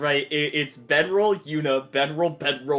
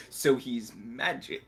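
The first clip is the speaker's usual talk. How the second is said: Liz; 7 semitones lower, 8 dB quieter, slower than usual. Acted. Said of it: "she's like".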